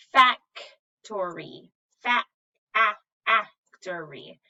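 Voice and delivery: factory slowed, fa stretched; sounded out. Shown as a demonstration. Teacher sounding out factory syllable by syllable. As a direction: pull the fa apart slowly. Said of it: "I hear the A sound".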